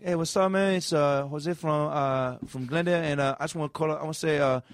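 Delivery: a hint of a laid-back guy shouting out his girl; mock radio caller. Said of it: "it's like a guy being like".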